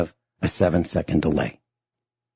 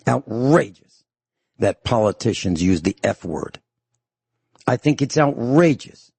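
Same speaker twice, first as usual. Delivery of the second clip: outraged rant; 4 semitones higher than usual. Real, not acted. Host ranting about profanity.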